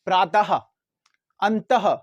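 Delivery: प्रातः and अंतः each ending in a breathed ha; a clear ha after प्रातः and अंतः; demo of visarga. Shown as a demonstration. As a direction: give प्रातः and अंतः an audible ha at the end. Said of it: "हा का sound सुनाई देगा".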